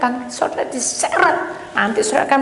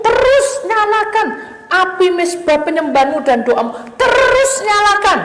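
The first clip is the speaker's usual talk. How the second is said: fervent exhortation; 6 semitones higher, 5 dB louder than usual. Real, not acted. Preacher urging the congregation to keep the fire burning, fervent exhortation. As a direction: preach it at full force.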